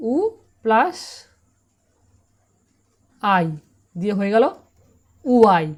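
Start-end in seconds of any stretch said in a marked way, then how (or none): 5.3-5.7 উআই said loudly as one smooth sound, oo-eye; teacher calls out উআই in one glide; loud model pronunciation. Shown as a demonstration. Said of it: "উচ্চারণ কী হবে?". (উআই জোরে এক টানে বলা)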